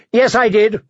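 a spoiled king refusing to back down; insisting boy king. A narrator's reading. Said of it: "Joffrey insisted".

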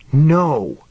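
emphatic, restrained fierce "whisper", still voiced. A narrator's reading. Woman grabbing his arm to stop him, fiercely insistent. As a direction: urge him to stop, fiercely but held in. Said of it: "she whispered fiercely".

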